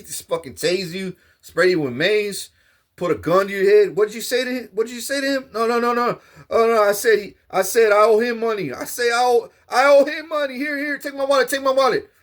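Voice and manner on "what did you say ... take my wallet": higher, panicky stranger begging them to stop; scared pleading man. Acted. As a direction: beg frantically, hand over the wallet. Guards and scared man acted.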